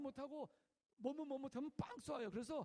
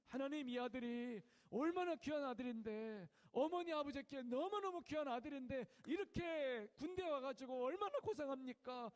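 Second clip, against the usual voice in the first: louder, earnest intercession; praying for soldier; 3 semitones higher, 5 dB louder than usual. Retold or imitated. Chaplain holding a soldier's hand, earnest loud prayer. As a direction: pray warmly over him. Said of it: "그 손잡고 기도한대".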